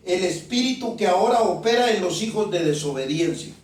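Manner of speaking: slow, deliberate Bible reading; slow scripture reading. Real, not acted. Preacher reads Ephesians to the congregation, slowly. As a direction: read the verse out slowly and emphatically. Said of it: "se lo voy a leer únicamente despacio".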